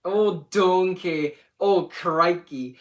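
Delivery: slow, punched mock exclamations; goofy drawn-out spoof of an Aussie outcry; making fun. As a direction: parody the saying, stretching each variant. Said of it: "I made fun of it. I said".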